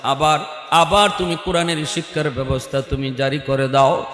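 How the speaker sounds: hushed melodic preaching; intoned sermon storytelling. Real, not acted. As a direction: chant the story softly, stretching the line endings.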